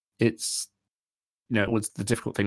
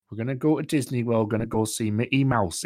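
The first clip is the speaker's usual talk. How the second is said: attempted Geordie accent. Shown as a demonstration. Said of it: "one of the harder ones to do".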